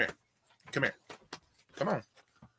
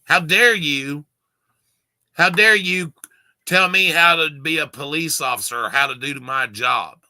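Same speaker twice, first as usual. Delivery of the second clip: indignant officer; 3 semitones higher, 6 dB louder than usual. Retold or imitated. Mocking the officer who scolded his father, loud and indignant. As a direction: throw the officer's outrage back at him. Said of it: "you could still hear in their voice the disdain".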